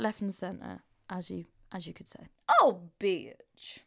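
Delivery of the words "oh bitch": a ham-fisted Irish accent greeting, played for laughs; awful Irish accent. To her podcast listeners, a deliberately awful Irish accent. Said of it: "my awful attempt at an Irish accent".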